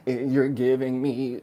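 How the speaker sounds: lightly put-on teenage voice; mildly mock a teenager's way of talking. Man mocking how women talk about relationships, mock teenager. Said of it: "You sound like a teenager".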